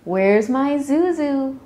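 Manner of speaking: slow, high, loud sing-out call. A narrator's reading. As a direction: call for your child from the door. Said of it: "Mommy called from the door".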